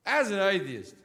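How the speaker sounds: mock solemn opener. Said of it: "start a sentence like this".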